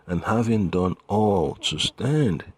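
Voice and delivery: scripture reading. Acted. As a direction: land the verse firmly and slowly. Reads scripture aloud.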